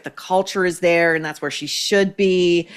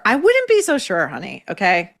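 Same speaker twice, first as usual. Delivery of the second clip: sassy. Real, not acted. Sassy retort to wife.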